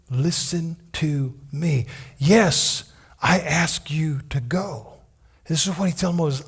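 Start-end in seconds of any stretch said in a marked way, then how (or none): 0.1-4.9 gentle God voice. Acted. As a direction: speak like a patient father. God speaking gently to Moses.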